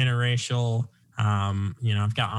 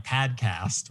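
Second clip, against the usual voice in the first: Boston accent, "Padcast" with a flat broad a. Shown as a demonstration. Host shows how a Boston accent would sound, Boston accent. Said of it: "more Bostonian".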